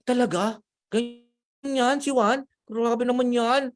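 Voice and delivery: high, slow, drawn-out amazement; shocked disbelief. Retold or imitated. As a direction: stretch it out in disbelief. Pedro reacts to gossip. (gulat na gulat na si Pedro, mabagal at mataas)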